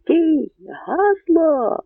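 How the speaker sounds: high, drawn sentry's shout; shouted challenge. A narrator's reading. Guards on the bank demand the password again, high shout. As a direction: yell the order across the river. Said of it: "знов закричали на березі".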